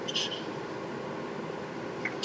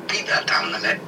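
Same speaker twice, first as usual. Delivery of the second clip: mock hush; 6 semitones higher than usual. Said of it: "Popes before him went".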